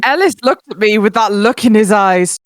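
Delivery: shouting. Acted. Reads line shouting.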